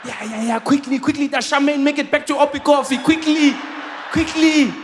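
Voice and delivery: mock official, quickly shouted; mock hurried official. Mocking official rushing him.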